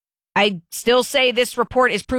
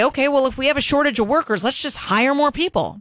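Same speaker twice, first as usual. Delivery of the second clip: fast, higher mock suggestion; sarcastic; 6 semitones higher than usual. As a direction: toss it off like it's obvious. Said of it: "I'm being sarcastic".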